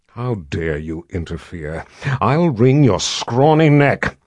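a hint of a menacing nun, slow; wicked stepmother. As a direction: threaten slowly, lightly voiced crone. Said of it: "with a glower".

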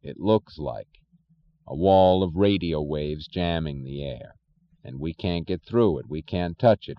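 solemn. Acted. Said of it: "his voice oddly solemn".

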